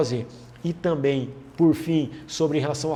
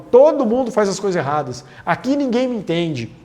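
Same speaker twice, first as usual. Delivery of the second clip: exasperated complaining; 3 semitones higher, 4 dB louder than usual. Shown as a demonstration. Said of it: "Generalizar é quando eu falo".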